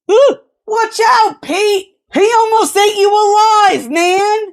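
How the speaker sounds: high, teasing warning; mocking alarm. A narrator's reading. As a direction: rib him with fake alarm. Crewmen teasing the cook.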